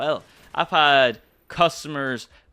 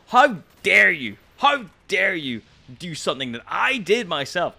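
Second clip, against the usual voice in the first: higher, slowed outraged whine; mock indignation; 6 semitones higher, 5 dB louder than usual. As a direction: ham up the offended customer. Mocking indignant customer voice.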